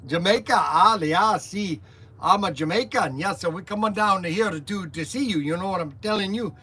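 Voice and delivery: loosely imitated Jamaican accent. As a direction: do a rough mock Jamaican slang. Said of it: "almost like a Jamaican".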